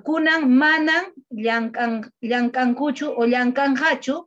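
"Kunan manan llankan" muy despacio; frase en quechua dictada despacio; lento y claro. Shown as a demonstration. (dictado lento en quechua)

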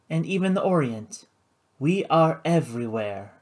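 smooth and controlled, a touch up; lightly voiced poised hostess. Karina explaining her club, cool and poised.

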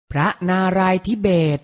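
พระนารายณ์ทิเบต said carefully as phra-na-rai-thi-bet; careful teaching read of พระนารายณ์ทิเบต; pronunciation model. Shown as a demonstration. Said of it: "ออกเสียงพร้อมๆพี่ไทยให้ถูกต้อง".

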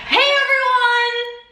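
high, slow, gushing greeting; beauty guru voice. Shown as a demonstration. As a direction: stretch it out bubbly and high. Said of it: "You sound like a beauty guru".

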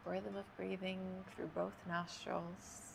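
unhurried yoga breathing cues with long pauses; measured, spacious yoga nidra instruction; guided meditation. Real, not acted. Leads yoga nidra breathing for sleep.

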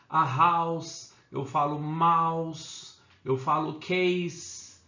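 slow model of "house", "mouse", "case" with S, never Z; final S sound. Shown as a demonstration. Teacher correcting bad habits, "house", "mouse", "case" drawn out with final S. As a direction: stretch "house", "mouse" and "case", each ending in voiceless S. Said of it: "Vamos arrumar essas coisinhas".

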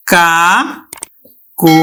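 কা then কো, each syllable said apart. Shown as a demonstration. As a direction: break কাকলি into কা and কো. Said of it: "আমরা উচ্চারণ করবো কিন্তু". (আলাদা আলাদা অক্ষরে ধীরে বলা)

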